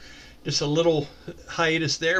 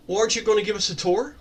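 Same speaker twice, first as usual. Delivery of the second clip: quick, higher, playfully cheeky question; cheerful, playful; 4 semitones higher, faster than usual. Acted. Silwyn greets the towering beast man, cheerful and playful. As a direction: ask it brightly and playfully, in a hurry. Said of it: "very cheerfully and very playfully".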